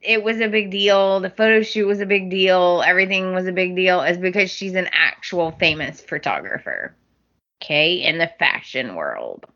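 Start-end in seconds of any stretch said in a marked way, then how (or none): 4.0-9.5 croaky froggy voice; sinus-blocked hoarse speech. Real, not acted. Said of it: "I sound like a frog".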